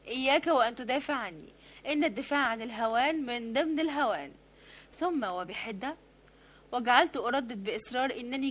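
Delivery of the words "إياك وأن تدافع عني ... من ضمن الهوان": مقاطعة حادة. Acted. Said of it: "فقاطعتني".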